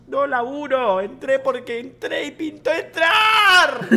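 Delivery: hammed-up outburst, stretched at the end; mock angry rant. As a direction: build to a high, loud shout. Old teacher's rant about working.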